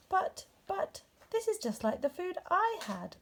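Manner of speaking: high, stammering disbelief; astonished. A narrator's reading. Bear finds Rabbit holding his lost food, astonished. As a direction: stumble over the surprise.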